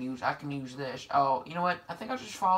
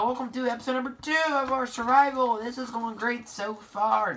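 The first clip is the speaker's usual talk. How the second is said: sarcastic; 6 semitones higher than usual. Real, not acted. Player welcoming viewers to a disastrous episode, sarcastic. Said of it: "That was sarcasm".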